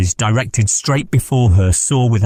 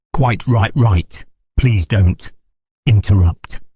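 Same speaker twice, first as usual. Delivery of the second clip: jerking intonation; slower than usual. Acted. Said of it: "curious jerking intonation".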